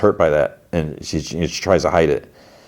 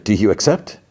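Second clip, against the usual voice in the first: higher, oily salesman patter; snake oil salesman; 4 semitones higher than usual. Retold or imitated. Salesman delivering McLean's message, higher salesman voice. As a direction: pitch it like a sly salesman. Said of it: "Snake oil dude looks at Ghoul".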